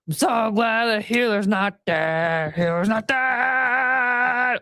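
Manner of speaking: slow drawn-out mock chant; healer sound effect. Making a healer sound effect for the video, slow and drawn out. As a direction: stretch the line like a game sound cue. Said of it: "continuing to make the noise".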